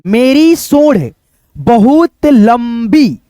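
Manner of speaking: slow, careful reading of the elephant's line; slow reading aloud. Acted. Teacher reads the elephant's complaint slowly to children. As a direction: drag the words out for young readers.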